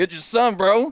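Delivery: acted-out very high, loud, obnoxious cocky tone. Speaker retells how they once greeted someone who had answered, putting on a cocky attitude. Imitating a jerk. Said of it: "I said it like that, like a like a jerk".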